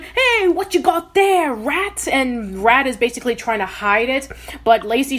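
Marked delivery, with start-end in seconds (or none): 0.0-2.1 high, slow Cockney voice of a curious spy; a sly Cockney question asked up high; Cockney accent. Retold or imitated. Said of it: "this really cool kind of Cockney accent".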